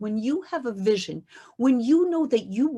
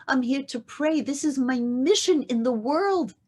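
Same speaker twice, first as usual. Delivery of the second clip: pleading; 2 semitones higher than usual. Acted. Hannah pleading with the priest.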